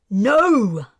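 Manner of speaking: loud desperate yell; holler. A narrator's reading. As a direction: shout to stop the fight. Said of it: "Kez hollered".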